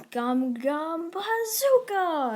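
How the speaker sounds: drawn-out battle cry, rising high and loud; slow, soaring hero shout; attack call. Acted. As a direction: stretch it out like an anime special move. Hero calls out his attack.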